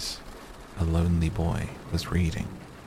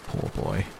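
pitying; 9 semitones lower than usual. A narrator's reading. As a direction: sigh it out with pity for the child. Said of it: "he said in pity for his former self".

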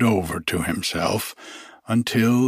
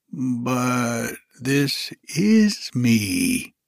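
surprised; much slower than usual. Acted. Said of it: "very much surprised".

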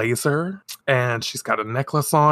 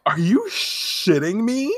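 high, slow outraged disbelief; stunned outrage; real disbelief; 8 semitones higher than usual. Real, not acted. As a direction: say it in shocked outrage.

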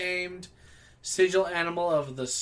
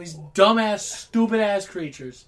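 mock angry rant; 3 semitones higher, 7 dB louder than usual. Real, not acted. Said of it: "Why are you so angry about horses".

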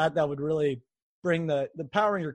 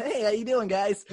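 higher, easy casual greeting; lightly mock an everyday hello; normal unmasked voice; 5 semitones higher than usual. Host joking about the hero unmasked, raised normal voice. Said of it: "just had your normal voice".

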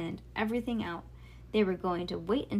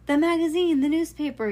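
loud, higher-pitched yell; 9 semitones higher, 10 dB louder than usual. A narrator's reading. Dad to his daughters about their newspaper, yelling. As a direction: raise the voice in exasperation. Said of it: "he yelled".

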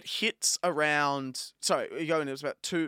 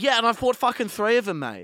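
much higher and louder indignant snap; annoyed retort; 8 semitones higher, 7 dB louder than usual. Retold or imitated. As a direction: fire it back at the usher, fed up. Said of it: "I was so annoyed".

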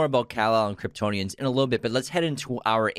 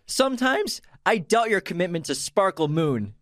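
stern coach quote; 7 semitones higher than usual. Acted. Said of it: "I said it wrong".

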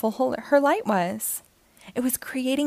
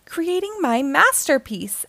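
proud, higher and brighter exclamation; excited exclaim; 5 semitones higher than usual. Acted. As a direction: announce it like a proud artist. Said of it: "exclaimed a beetle".

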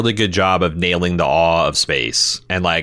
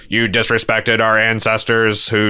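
robot voice; 2 semitones higher than usual. Pretend. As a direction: shout it like an offended robot. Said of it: "disrespectful impression of a robot".

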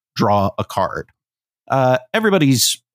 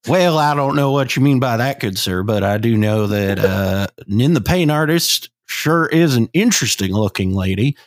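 put-on Midwest Southern accent. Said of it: "the Midwest Southern".

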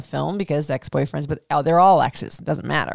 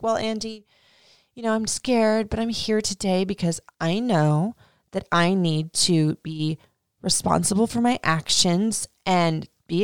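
mock rehearsed. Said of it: "Like, rehearsed much".

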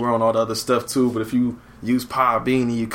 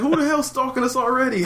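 higher, mock-startled question; surprised; 12 semitones higher than usual. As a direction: ask it in half-laughing disbelief. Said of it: "That's what I was like".

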